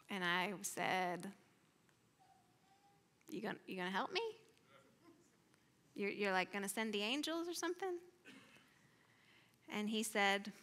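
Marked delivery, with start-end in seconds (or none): 3.3-8.0 halting, softly asked, rising at the end; timid, hopeful question; tentative pleading question. Retold or imitated. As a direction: ask hesitantly whether help is coming. Wounded speaker asking God for help.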